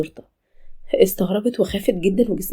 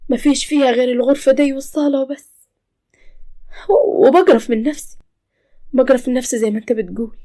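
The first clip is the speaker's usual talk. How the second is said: tearful lament; 4 semitones higher than usual. Acted. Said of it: "بدأت سارة تعيط".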